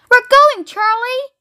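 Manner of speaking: high, singsong exclamation; gleeful singsong. A narrator's reading. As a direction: sing out the good news to your grandson. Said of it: "sang Grandpa Joe".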